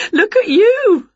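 high, loud cackling tease; giggle, then squeal the words; laughing. A narrator's reading. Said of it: "laughed Winnie".

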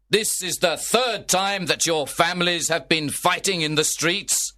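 a prince's measured, angry decree. Acted. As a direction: lay down the law to the feuding lords. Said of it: "He was very angry".

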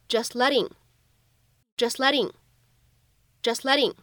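"just letting" linked, t of "just" unreleased, "letting" flapped; incomplete plosion, flap T. Shown as a demonstration. Teacher models linking for learners, "just letting" with unreleased t and flap. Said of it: "存在不完全爆破".

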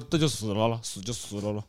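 put-on a soft, matter-of-fact old lady; quiet imitation of grandma's shrug; quoting grandma. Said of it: "我奶奶就说".

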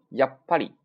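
やっぱり with や caught short, a beat, then ぱり; held tension. Shown as a demonstration. Teacher drills learners on holding the force, firm stop. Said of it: "把这劲儿收住啊".

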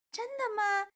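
high, loud happy question; thrilled, hopeful fairy; delighted. A narrator's reading. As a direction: ask it with a leap of joy. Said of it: "仙女高兴地问".

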